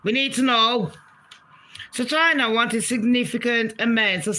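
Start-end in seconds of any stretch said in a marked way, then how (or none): 0.0-0.9 mock outburst. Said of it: "And I'm like".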